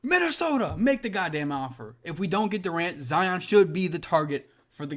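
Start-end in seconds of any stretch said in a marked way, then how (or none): 0.0-2.0 much higher, pleading call to Minnesota; desperate fan begging his team, pitched way up. Real, not acted. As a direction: push the plea up high, begging. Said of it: "bro, I'ma say it".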